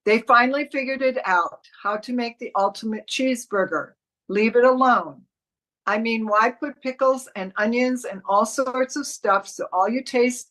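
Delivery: upbeat ad read of the cheeseburger spot; commercial read. Shown as a demonstration. Teacher reading the ad copy to the class, upbeat ad read. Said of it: "I'm going to read it for you".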